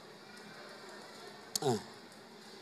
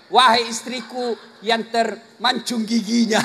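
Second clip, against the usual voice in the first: joking pet name; 3 semitones lower than usual. Shown as a demonstration. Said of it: "kau cari yang lain".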